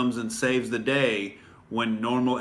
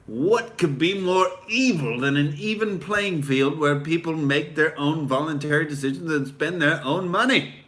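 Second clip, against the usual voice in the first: sarcastic mock outrage; 3 semitones higher than usual. Mocking critics of free markets, sarcastic rising outrage. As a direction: fake horror at a level playing field. Sarcastic rhetorical question on freedom.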